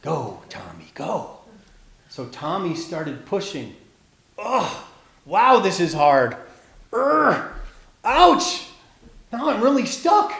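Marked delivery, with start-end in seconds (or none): 0.0-1.4 soft cheer. A narrator's reading. Friends urge Tommy on. 4.4-10.3 acted storybook struggle; straining effort. A narrator's reading. Tommy pushing through net.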